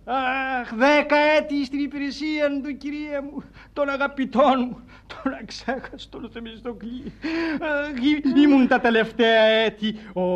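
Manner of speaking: high, theatrical sighing; melodramatic, heartfelt remembrance; nostalgic lament. Acted. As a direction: mourn a beloved friend with grand emotion. Reminisces grandly about dead employer.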